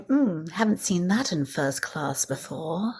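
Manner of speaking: a hint of a sniffy aristocrat sizing someone up; snooty first-class lady. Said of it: "the lady going".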